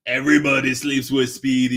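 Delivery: weak attempt at a cartoon Mexican accent; low, half-hearted Mexican-accent impression; Slowpoke Rodriguez. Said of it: "I don't do it very well".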